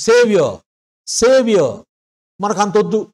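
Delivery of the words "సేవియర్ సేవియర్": సేవియర్ ending on a short "ya" with no r; r-less model; no final r. Shown as a demonstration. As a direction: drop the r in సేవియర్. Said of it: "ఆర్ కూడా పలకకూడదు".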